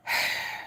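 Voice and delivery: heavy voiceless sigh; weary sigh. Real, not acted. Recalling the wait for her appointment, weary sigh. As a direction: breathe out wearily. Recalling weeks of waiting in denial.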